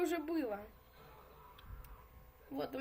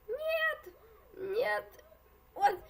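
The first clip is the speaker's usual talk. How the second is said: panicked; 6 semitones higher, 5 dB louder, much slower than usual. Real, not acted. Being squeezed from both sides.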